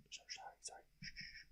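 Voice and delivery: rapid whispered sorries; barely voiced, apologetic hush; whispered apology. Real, not acted. Apologising to chat for yelling, whispered. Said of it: "I'll stop yelling".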